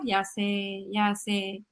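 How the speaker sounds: soft, calm acknowledgment; patient mom. Acted. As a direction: soothe quietly under the tantrum. Mamá calmada repite ante berrinche. (paciente, suave y calmada)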